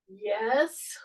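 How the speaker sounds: a breathy whispered yes. Real, not acted. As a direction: whisper the praise under your breath. Whispered praise during exercise.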